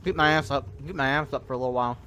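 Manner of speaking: eating while talking; mouth full. Real, not acted. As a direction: talk through a mouthful. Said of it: "Sorry, I'm eating".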